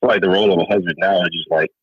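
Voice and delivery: muffled phone line. Real, not acted. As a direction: voice muffled on a bad call. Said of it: "it sound like you're muffled".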